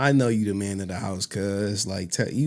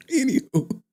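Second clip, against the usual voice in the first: high sing-song anywho; 3 dB louder than usual. Real, not acted. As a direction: brush it off in a lilting high voice.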